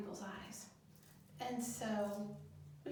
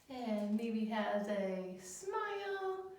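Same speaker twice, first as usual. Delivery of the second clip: slow; 4 dB louder, much slower than usual. Acted. Drawing smile for children.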